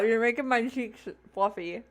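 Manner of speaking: talking around ice cubes; words muffled by a mouthful of ice. Real, not acted. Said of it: "there's ice in your mouth".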